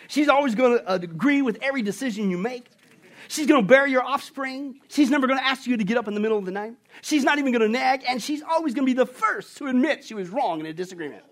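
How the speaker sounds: God pitching the perfect woman to Adam, hammed up; salesman pitch. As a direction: sell it like a TV pitchman.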